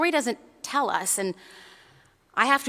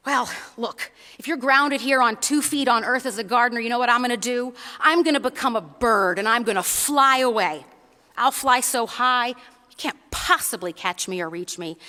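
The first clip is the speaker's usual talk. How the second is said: cocky bunny. Acted. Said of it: "He says".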